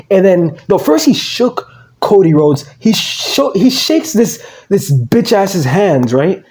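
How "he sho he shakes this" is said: ordinary talk, nothing marked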